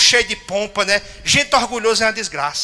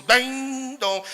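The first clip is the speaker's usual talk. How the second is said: bell sound; 5 semitones higher, 4 dB quieter than usual. Retold or imitated. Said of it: "Aí o sino começou".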